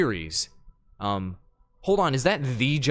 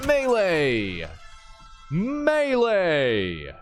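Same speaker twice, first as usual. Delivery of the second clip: high, drawn-out call sliding down in pitch; mock battle cry; 5 semitones higher, much slower than usual. Gamer attacking in melee, long mock battle cry. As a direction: stretch the word out like an attack cry.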